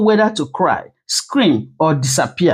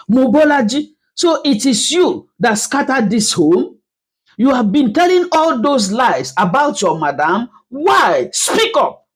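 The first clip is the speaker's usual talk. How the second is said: sharp, high accusing voice; 5 semitones higher than usual. Acted. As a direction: demand an answer, accusing. Woman accusing the housemaid.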